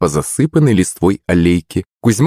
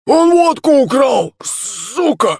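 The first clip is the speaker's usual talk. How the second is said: much higher, strained wheezy rasp; wheezing drunk; slower than usual. A narrator's reading. Second drunk rasps about the stolen vodka, wheezing. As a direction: hiss it out like a drunk with no voice. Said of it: "просипел второй".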